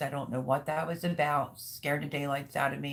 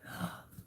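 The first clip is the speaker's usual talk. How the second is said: sharp gasp of fright; mimed gasp; 10 dB quieter than usual. Retold or imitated. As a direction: gasp in, startled.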